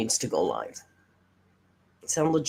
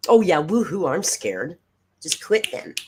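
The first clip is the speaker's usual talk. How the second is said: sarcastic mock fear; 3 semitones higher, 3 dB louder than usual. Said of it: "I'm sorry, what?".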